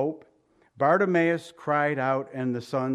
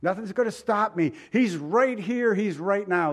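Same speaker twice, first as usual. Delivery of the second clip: higher-pitched, insistent resolve; determined; 4 semitones higher than usual. Acted. Blind man refusing to be stopped, determined. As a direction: push on as if nothing could stop you. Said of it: "He was determined".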